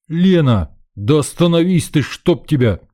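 loud, high bellow at full lung power; full-lunged shout to stop her. Acted. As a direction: roar it after her across the dark. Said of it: "рявкнул я во всю мощь лёгких".

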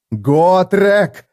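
loud, high urgent yell. Acted. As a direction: shout his name to wake him. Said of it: "снова заорал Феликс".

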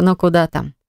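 usual speaking voice

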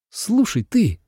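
brusque, blunt opener; gruffly calling him out; rough. A narrator's reading. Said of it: "грубовато начала девушка".

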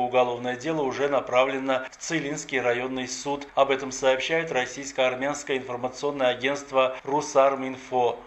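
steady, formal newsreader delivery; radio news anchor reading a crime report. Acted. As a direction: read the bulletin crisp and neutral. Presenter reads the news.

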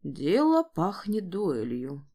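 slow, sighing resignation. Acted. Henrich sighing to himself at the family scene, slow and resigned. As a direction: let it out on a weary sigh. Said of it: "невольно вздохнул Генрих".

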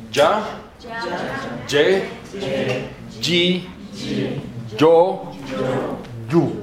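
"tsa, tse, tsi, tso, tsu" said slowly, one syllable at a time; syllables for the class to repeat. Shown as a demonstration. Teacher leading the class in a repeat-after-me drill. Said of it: "Repitan conmigo".

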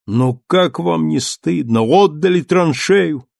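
slow, shaming reproach; reproachful. Acted. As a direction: scold the soldiers slowly. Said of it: "повторил он".

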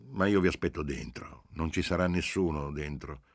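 lightly voiced genial informant giving directions; jovial agent. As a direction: spell out directions with friendly emphasis.

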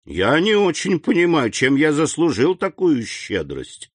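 high-pitched, incredulous wonder; disbelieving his luck. A narrator's reading. Gatekeeper baffled by the count's generosity, disbelieving. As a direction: afraid to believe such good fortune. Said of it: "боясь поверить своему счастью".

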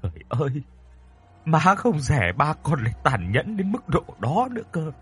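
tearful lament with restraint; mild sobbing. Acted. Mother grieving to her son over his father's cruelty, mildly sobbing. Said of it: "Bà nói trong tiếng nức nở".

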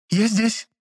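high, startled squeak; startled reply. A narrator's reading. Frightened assistant answering her boss. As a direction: pop in startled. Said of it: "вбежала испуганная Лизонька".

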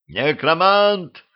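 high, slow drawn-out yell of outrage. Acted. Гриша орёт при виде колдуна, высокий протяжный крик. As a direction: howl the name in disbelief. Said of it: "заорал Гриша".

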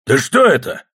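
a gruff sergeant's barked question; barking. A narrator's reading. Sergeant Popov arriving at the arrest, barking. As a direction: bark it as you walk up. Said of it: "рявкнул урядник Попов".

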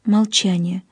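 plain reading voice

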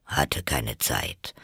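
very low, slow griffin voice; low, drawn-out excuse; offhand Gryphon. A narrator's reading. Gryphon excusing itself from missed lessons, offhand. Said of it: "sagte der Greif".

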